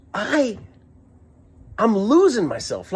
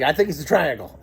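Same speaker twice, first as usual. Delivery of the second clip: mildly emotional retold quote; more emotional; 4 semitones lower than usual. Passenger telling the driver about the lights, mildly emotional. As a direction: put a touch of feeling into it. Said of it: "I was more emotional than that".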